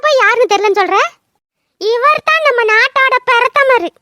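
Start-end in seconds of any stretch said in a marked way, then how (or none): 1.8-3.9 slow, higher mock-grand announcement; slow sarcastic fanfare. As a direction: announce him like royalty, mocking. Sarcastic introduction of drunk son.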